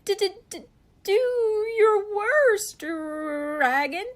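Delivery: very high, stuttering challenge; stammering scared knight. Acted. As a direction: stammer bravely though terrified.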